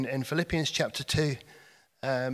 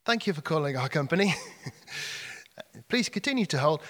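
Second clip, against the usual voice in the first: phone menu voice; faster than usual. Retold or imitated. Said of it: "called the emergency plumber".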